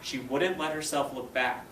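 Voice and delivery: slow, expressive storybook narration; story read-aloud. A narrator's reading. Teacher reading the race scene to her students, expressive read-aloud. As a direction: read it to the class, building the race. Reads chapter aloud to class.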